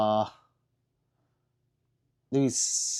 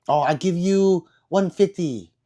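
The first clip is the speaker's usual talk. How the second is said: higher haggling seller's voice; haggling shopkeeper; 6 semitones higher, 4 dB louder than usual. Retold or imitated. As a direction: pitch the price like a street vendor. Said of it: "she's like".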